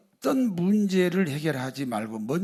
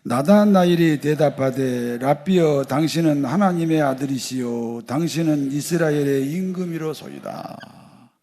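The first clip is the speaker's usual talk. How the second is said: loud, declamatory Bible reading; scripture reading aloud; 7 dB louder than usual. Real, not acted. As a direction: lead the congregation in reading the verse out. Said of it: "같이 읽습니다".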